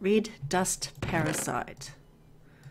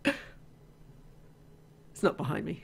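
whispered self-reassurance; 4 semitones lower, 8 dB quieter, much slower than usual. Real, not acted. Trying to calm herself.

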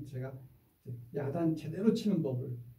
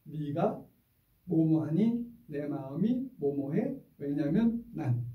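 slow, even choral recitation; slow calm template; slower than usual. Shown as a demonstration. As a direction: say each part deliberately. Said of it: "시작".

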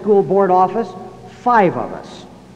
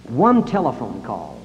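slow emphasis; 5 semitones lower than usual. Shown as a demonstration. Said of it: "repeated for emphasis".

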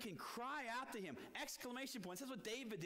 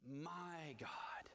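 whisper; 6 semitones lower than usual. Acted. Preacher stresses personal God.

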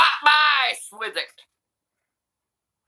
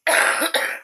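fake cough. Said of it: "Is the coughing part".

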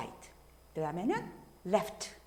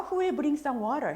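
raised example question; 7 semitones higher, 5 dB louder, much slower than usual. Shown as a demonstration. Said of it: "예를 들어서".

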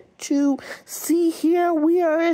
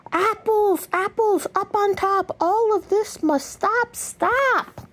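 higher, urgent, frantic storytelling; excited story reading; 5 semitones higher than usual. Acted. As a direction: read it like a chaotic chase. Frantic chase scene voices.

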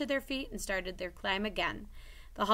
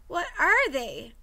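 frightened; 10 semitones higher, 8 dB louder, slower than usual. Acted. Richie repeats the frightened question.

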